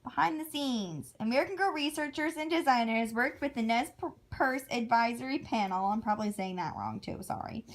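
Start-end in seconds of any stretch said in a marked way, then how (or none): 0.0-5.9 lively fact-reading voice; reading aloud. Acted. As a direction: read it out like a fun fact.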